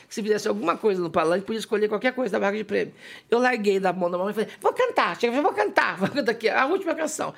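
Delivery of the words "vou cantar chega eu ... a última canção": put-on high, eager child's announcement; excited child. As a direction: burst out like a thrilled little girl. Child announcing she'll sing.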